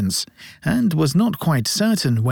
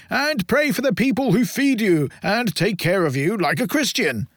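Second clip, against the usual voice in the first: gruff voice; 7 semitones higher than usual. A narrator's reading. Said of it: "in a gruff voice".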